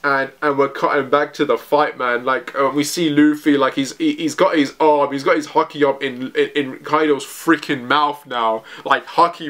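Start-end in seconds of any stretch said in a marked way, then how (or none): none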